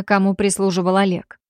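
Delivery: ordinary delivery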